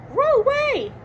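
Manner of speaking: high, far-off cartoon dog saying no; Scooby-Doo voice. Scooby turns down a day of beauty, cartoon dog voice. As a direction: bark the refusal like Scooby.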